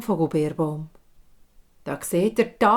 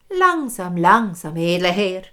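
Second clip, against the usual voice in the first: teasing hag; 5 dB louder than usual. Acted. Hag teases the king.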